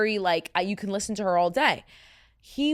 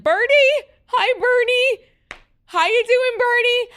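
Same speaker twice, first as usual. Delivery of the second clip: very high, loud squealed call; excited dog greeting; 10 dB louder than usual. Retold or imitated. Hiker calling to a dog she knows, high excited squeal. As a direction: squeal out a big hello to a dog.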